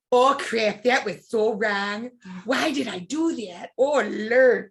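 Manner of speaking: mother's voice. Retold or imitated. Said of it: "talk like our mother".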